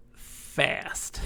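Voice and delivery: whisper. Real, not acted. Drunk streamer muttering.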